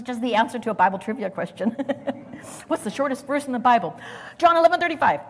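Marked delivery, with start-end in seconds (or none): 2.7-5.2 bright quiz recall. Retold or imitated. Recalling childhood Bible trivia.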